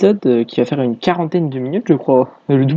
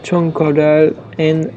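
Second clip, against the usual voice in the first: English accent; 2 semitones higher, slower than usual. Shown as a demonstration. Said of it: "Ne jugez pas mon accent anglais".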